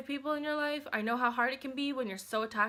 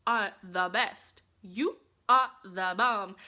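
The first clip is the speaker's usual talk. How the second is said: slow mirror pep talk; 4 semitones lower, 4 dB louder, slower than usual. Shown as a demonstration. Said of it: "Look in the mirror and be like".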